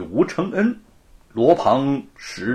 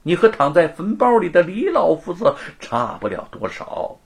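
vicious curse; 3 semitones higher than usual. Acted. Luo curses Wu to a lonely life, spiteful. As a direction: curse him coldly. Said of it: "恶毒地诅咒着".

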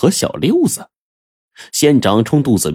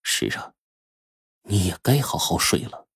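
sudden cold remark; 7 dB quieter than usual. Acted. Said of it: "冷不丁地说".

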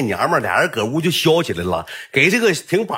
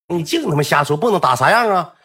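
higher, mildly indignant retold rebuke; mock scolding; 4 semitones higher, 3 dB louder than usual. Coach tells off the student on the phone, mildly indignant. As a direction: imitate a coach dismissing an excuse. Coach rejecting the caller's explanation.

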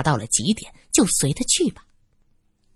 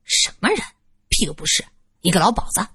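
气愤; faster than usual. Acted. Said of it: "玉伟气愤地说着".

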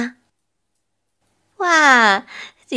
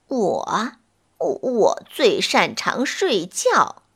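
lazy, drowsy, halting sloth voice; super slow sleepy sloth; slower than usual. Acted. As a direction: drag each word out, half asleep. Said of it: "懒洋洋地回答".

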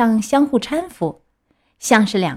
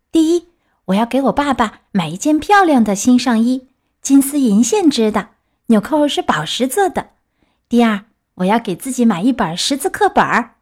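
put-on slightly raised, lively storybook boy; lightly voiced eager puppet; 2 semitones higher than usual. Pinocchio tells the fox his plans, lightly voiced eagerness. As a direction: list the plans with a touch of pride.

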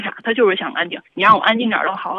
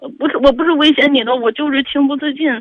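tearful, higher and louder protest; crying; 4 semitones higher, 4 dB louder than usual. Real, not acted. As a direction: explain yourself through real tears. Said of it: "你干嘛要哭呢". (哭着急忙解释)

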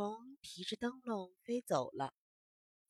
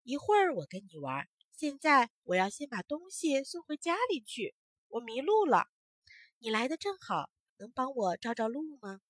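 lost ant; 2 semitones higher, 6 dB louder than usual. Acted. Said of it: "小蚂蚁说".

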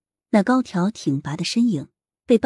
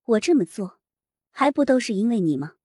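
yelling across the room; 4 semitones higher than usual. Acted. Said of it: "提高声量朝宋毅喊道".

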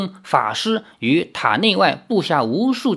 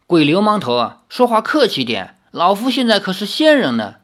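glaring retort; 4 semitones higher than usual. Acted. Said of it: "苏宗仙瞪视着他说".

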